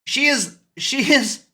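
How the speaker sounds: worked-up, cursing fan rant; heated rant. Acted. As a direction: vent like a fed-up fan who has had enough. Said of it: "Rant starting now".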